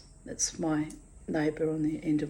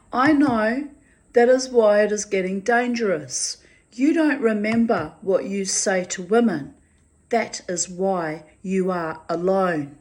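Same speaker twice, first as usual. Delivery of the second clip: angry; 3 semitones higher, 5 dB louder than usual. Retold or imitated. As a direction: shout the warning at him. Angry warning to neighbour.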